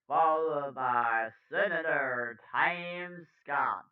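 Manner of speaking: put-on news read with a New York accent; slightly New York-sounding anchor. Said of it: "I have the New York accent".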